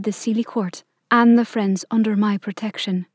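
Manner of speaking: a stately queen, calm and cool; cold sweet ancient calm. Acted. Queen addresses her court.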